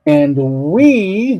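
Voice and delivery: WE lengthened and held apart; stress on WE. Shown as a demonstration. Teacher marking the emphatic pronoun, stress on WE. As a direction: lean on WE, then hold. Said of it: "the emphatic".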